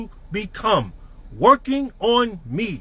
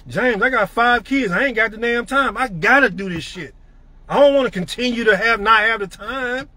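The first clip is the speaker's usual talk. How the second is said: determined version. Retold or imitated. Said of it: "See the difference?".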